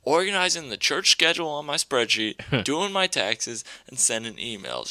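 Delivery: high-pitched mock shriek of outrage; outraged mom. Mom finding porn on her computer, high mock outrage. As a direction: ham up a furious church lady. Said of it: "She's like".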